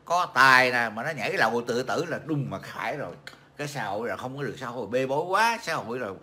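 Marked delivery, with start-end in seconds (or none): 3.6-6.1 light mocking imitation of a society-blamer; imitating Dương Chú Cụi. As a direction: parody the whiner, fast then pitched up. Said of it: "bắt chước mấy thằng Dương Chú Cụi nó nói vậy đó".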